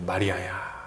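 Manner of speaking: low, hushed voice of Jesus; Jesus calling Mary. Acted. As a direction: call her name low and soft. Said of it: "이렇게 딱 부르세요".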